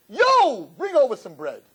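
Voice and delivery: a hint of a street-talking mother; mock street mother. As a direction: toss off a slangy yo. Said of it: "your mother said".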